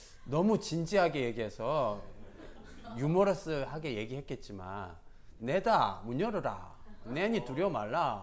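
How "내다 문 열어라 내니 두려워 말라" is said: Gyeongsang dialect spoken at a slower pace. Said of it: "예수님이 사투리 쓰시는 거 보니까 경상도 출신인 것 같아요".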